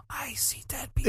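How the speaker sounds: high, hushed frightened-child imitation; soft, high mock-spooky voice; movie quote impression. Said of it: "it's kinda like that movie, Sixth Sense".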